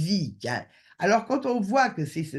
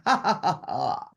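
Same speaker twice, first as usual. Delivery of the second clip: playful joy; 2 semitones lower than usual. Shown as a demonstration. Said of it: "l'état d'esprit qui me fait dire".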